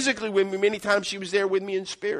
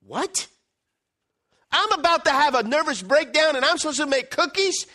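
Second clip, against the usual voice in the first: higher, louder outraged question; incredulous churchgoer, raised voice; indignant disbelief; 7 semitones higher, 3 dB louder than usual. Retold or imitated. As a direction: she can't believe the advice. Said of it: "And she goes".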